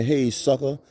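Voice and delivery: mock tough talk. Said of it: "I don't mean that".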